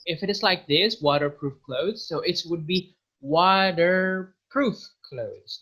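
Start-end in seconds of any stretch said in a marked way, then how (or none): 1.0-2.0 American waterproof, T flapped to D; American accent. Shown as a demonstration. Teacher demos the American accent to students. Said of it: "we do not say T, we say D". 3.2-5.6 slow American waterproof clothes, T flapped to D; American flap in waterproof, drawn out; American accent. Shown as a demonstration. Teacher demos the American accent slowly to students. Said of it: "we say D".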